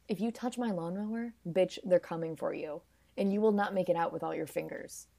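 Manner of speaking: softly spoken mock menace; mock threat. Teller voices a threat over the precious lawnmower, quiet mock menace. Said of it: "the lawnmower is like".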